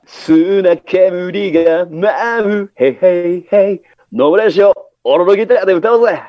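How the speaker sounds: slow crooned idol line; lightly sung idol pastiche; impression of a musician. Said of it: "よっちゃんから。".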